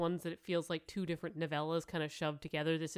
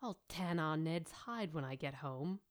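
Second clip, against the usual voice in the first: muttered; 6 dB quieter than usual. Acted. Nanny mutters about her son while reading aloud. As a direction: mutter it half to yourself. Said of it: "she muttered".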